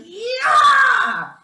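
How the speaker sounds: very high, loud yank-it-out yell; mock triumphant yell. Nurse yanking the stent out, hammed-up triumphant shout. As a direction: shout it as you rip it out. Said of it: "And she was like".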